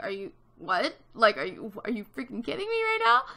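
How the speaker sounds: retold stunned question climbing into disbelief; disbelieving. Staring in disbelief at her.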